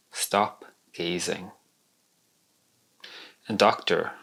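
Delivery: measured poem recital with deliberate pauses; poetry reading. Acted. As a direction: read your poem to an audience, phrase by phrase. Reads own poem aloud.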